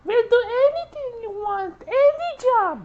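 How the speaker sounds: put-on high squeaky German-accented offer; mock German accent, desperate offer. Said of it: "German Nazi accent".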